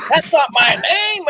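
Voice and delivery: retold wife snapping. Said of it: "She's like".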